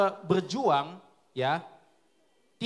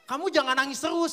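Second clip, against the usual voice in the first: mock scolding; 6 semitones higher than usual. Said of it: "Terus aku omelin".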